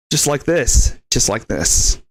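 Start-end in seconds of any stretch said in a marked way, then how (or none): 1.1-2.0 dropped low, put-on tough-guy voice; worst Liam Neeson impression. Shown as a demonstration. Showing off accents to Jimmy boy, low put-on voice. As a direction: sink into a low movie-threat voice. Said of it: "I can do accents, too".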